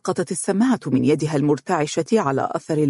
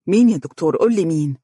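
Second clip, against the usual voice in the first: urgent; 3 dB louder, faster than usual. Acted. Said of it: "قال فارس سريعا".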